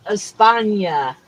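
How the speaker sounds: "España" said slowly, stressed on the middle syllable; locals' name. Shown as a demonstration. Host quoting what locals call the town, slow "España". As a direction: draw out "España" as es-PAHN-ya. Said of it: "The locals just call it".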